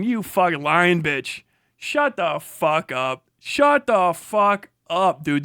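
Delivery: low, slow, drawn-out snarl; slow angry insult. Real, not acted. Telling the debater to shut up, slow and angry. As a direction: lean on every word to shut them up.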